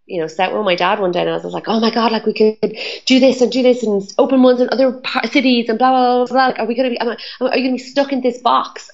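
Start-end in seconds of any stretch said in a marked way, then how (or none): 1.7-8.9 excited pitch. Retold or imitated. Pitching big plans to dad.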